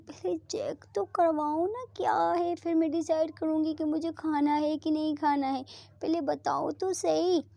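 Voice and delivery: put-on playful curious girlfriend; eager curious. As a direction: pester to know what it is. Preeta voiced, curious insisting.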